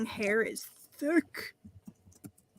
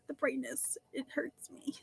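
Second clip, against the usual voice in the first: whispering; 3 semitones higher, 8 dB quieter than usual. Real, not acted. Complaining about screen brightness.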